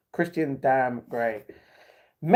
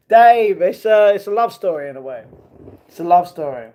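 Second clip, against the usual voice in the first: real giggly outburst; laughing protest; 2 semitones higher, 11 dB louder than usual. Real, not acted. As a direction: protest while cracking up.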